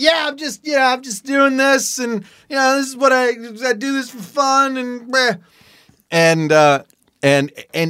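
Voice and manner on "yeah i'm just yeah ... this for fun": raised, pitched-up yell, calling out. Speaker retells answering a man while stuck with their barking dog, retelling a yell across the lawn. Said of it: "I'm like yelling across the lawn".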